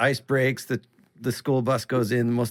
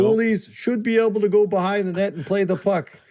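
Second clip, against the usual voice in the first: hockey fan; 7 semitones higher, 4 dB louder than usual. Retold or imitated. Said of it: "you're sitting there going".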